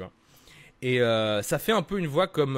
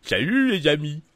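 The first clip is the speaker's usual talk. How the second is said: voix de Dingo plus aiguë. Shown as a demonstration. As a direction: salue Mickey comme Dingo. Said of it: "partir de dingo". (voix de Dingo)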